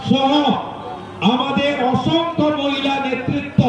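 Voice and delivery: forceful oratory in short, separated phrases; political rally speech. Real, not acted. Party leader thanking organisers and rallying supporters, forceful stump speech. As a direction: project each phrase to the crowd, pausing after it.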